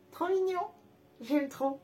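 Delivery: high quick squeal of delight; cute squeal. Real, not acted. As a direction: squeak it out adoringly. Reacts to finished case.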